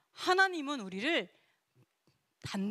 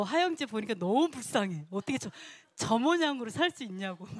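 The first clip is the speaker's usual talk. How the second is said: teasing fake sympathy, a touch louder; mock pity, teasing; 3 dB louder than usual. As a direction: rib a friend with pretend pity. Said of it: "이런 거". (장난스럽게 안쓰러운 척)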